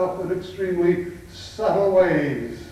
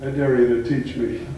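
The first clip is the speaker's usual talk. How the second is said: lower-pitched mock-tough officer's dare; imitated cocky challenge; 4 semitones lower than usual. Uniformed officer daring his teacher, imitated cocky challenge. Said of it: "they'd shove a shoulder at you and say".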